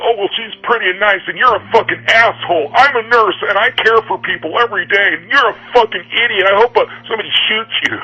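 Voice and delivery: sneering impression of a high-voiced angry commenter; mocking angry commenter. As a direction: ham up a shrill, self-righteous commenter tearing into him. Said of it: "hornet's nest of sleeping beauties".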